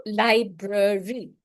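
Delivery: slow, syllable by syllable; teacher modelling a word for counting; syllable demo. Shown as a demonstration. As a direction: clap out each syllable slowly. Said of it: "clap them out".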